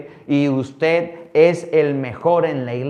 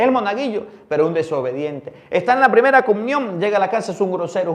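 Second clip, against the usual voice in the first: indignación creciente; 5 semitones higher, 4 dB louder, faster than usual. Acted. Predicación creciente.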